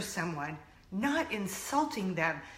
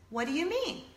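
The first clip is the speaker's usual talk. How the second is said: higher, innocent question; playing dumb; 5 semitones higher, 4 dB quieter than usual. Girlfriend checking what her mother said, playing dumb. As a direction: act as if you missed the insult. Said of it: "Just playing dumb".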